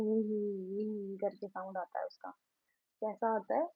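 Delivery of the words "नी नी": horse neigh. Shown as a demonstration. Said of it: "horse का कैसा sound होता है".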